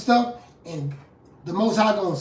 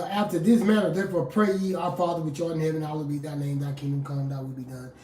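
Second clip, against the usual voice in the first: prayer recitation; 3 semitones lower than usual. Acted. Preacher quoting the Lord's Prayer to his listeners, recited and fading.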